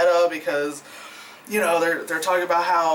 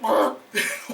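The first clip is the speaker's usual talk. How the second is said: short wordless grossed-out noise; imitated disgusted noise; 3 semitones higher than usual. Reviewer reacting to the gross scene, imitated disgust noise. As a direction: blurt a mock noise of revulsion. Acts out reaction while watching.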